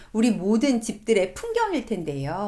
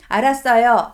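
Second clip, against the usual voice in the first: louder, clipped reluctant okay; grudging give-in; 7 dB louder than usual. Retold or imitated. Teen son snapping back at nagging parents, grudging. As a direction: bite it out like a fed-up teen. Son giving in under pressure.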